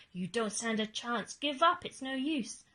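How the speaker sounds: loud playful taunt; mock shout. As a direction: jeer at the rival squirrel. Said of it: "hollered Bruce".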